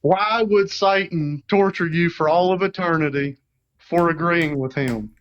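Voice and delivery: country accent. Shown as a demonstration. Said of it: "Say it with your country accent".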